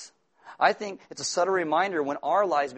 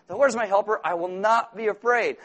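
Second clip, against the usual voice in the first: loud, high repeating of the verse; repeated declaration; 5 semitones higher, 5 dB louder than usual. Shown as a demonstration. Preacher showing the anxious repeating it. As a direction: say it again and again like a mantra. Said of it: "you won't understand a word you're saying".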